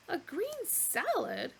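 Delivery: slow, high, scornful echo; disapproving. Acted. Animal scorning Arthur's order, disapproving. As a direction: sniff at it disdainfully. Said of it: "rolling his eyes disapprovingly".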